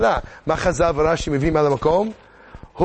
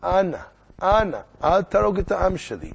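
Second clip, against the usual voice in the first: higher-pitched mock plea; pleading; 4 semitones higher than usual. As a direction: beg the king, lightly acted. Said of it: "בוכה, מתחננת". (תחינה מוצגת בקלות)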